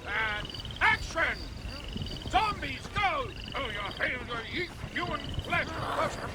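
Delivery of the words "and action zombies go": director calling action. Acted. Directing a film shoot.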